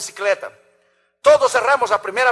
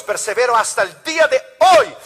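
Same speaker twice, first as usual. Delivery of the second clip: louder, fervent second reading of persevero; shouted quote; 2 semitones higher, 6 dB louder than usual. Shown as a demonstration. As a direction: proclaim "persevero" with force. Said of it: "repite la cita de Pablo". (cita proclamada con fuerza)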